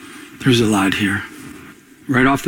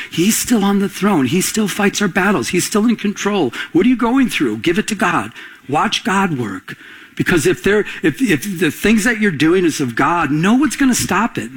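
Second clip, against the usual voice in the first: higher-pitched, insistent sermon delivery; impassioned preaching; 4 semitones higher than usual. Real, not acted. Pastor assuring church God fights their battles, impassioned preaching. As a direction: preach it with mounting conviction.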